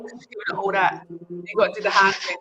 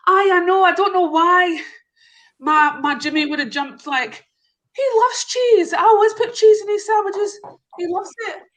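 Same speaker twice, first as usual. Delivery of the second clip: higher, louder mock Scottish wife's accent; 9 semitones higher, 3 dB louder than usual. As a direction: pitch her up into a Scottish wife, insisting. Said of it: "I tried to do the accents".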